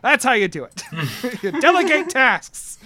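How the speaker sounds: put-on high, indignant old man ranting; fired-up old knight. Old knight Cecil fumes to coworkers about the stolen cake, high and indignant. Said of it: "he says".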